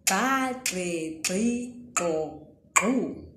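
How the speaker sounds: each syllable said with the Ndebele click; teacher sounding out ba, gbe, gbi, go, gu with a sharp click. Shown as a demonstration. Teacher demonstrating the click syllables to learners. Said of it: "here is how we pronounce it".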